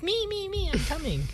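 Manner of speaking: high, excited mock call-out; eager rush. Co-host imitating Mara's text, excited. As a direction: gush that she's on her way. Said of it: "She's like".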